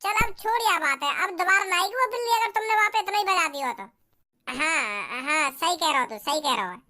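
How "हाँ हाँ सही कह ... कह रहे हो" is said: whimpering. Acted. Sulky agreement after scolding.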